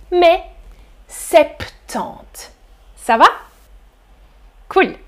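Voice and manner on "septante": septante with the P heard, said softly; P sounded. Shown as a demonstration. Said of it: "On prononce le P". (septante avec le P prononcé)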